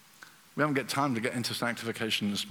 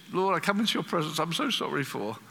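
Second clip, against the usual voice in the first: hurried apologetic prayer; sin-conscious apology; 3 semitones higher than usual. Acted. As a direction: rattle off a penitent prayer. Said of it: "sin consciousness".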